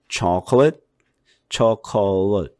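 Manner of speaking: chocolate clipped to two syllables; reduced American pronunciation. Shown as a demonstration. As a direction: say chocolate quick as chok-l. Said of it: "이렇게 해도 알아들어요". (chocolate 미국식 축약 발음)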